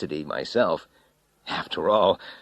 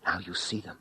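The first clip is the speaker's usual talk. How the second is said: hoarse; 8 dB quieter than usual. A narrator's reading. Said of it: "I said hoarsely".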